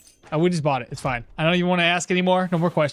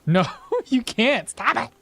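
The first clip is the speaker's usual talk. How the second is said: laughing through the quote; 3 semitones higher than usual. Retold or imitated. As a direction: giggle through the words. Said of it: "He says".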